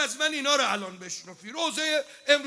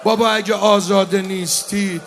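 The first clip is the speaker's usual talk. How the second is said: Hussein calling out; 6 dB louder than usual. Acted. Imam Hussein calling to the enemy to spare his family, loud pleading call. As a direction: plead loudly with the enemy soldiers. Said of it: "داد زد".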